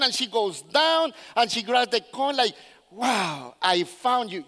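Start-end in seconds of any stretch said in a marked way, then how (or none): 2.9-4.4 low, savoured amazement; tender wonder. Acted. Woman talking to the coin she grabbed, low awed wonder. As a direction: marvel at a precious find.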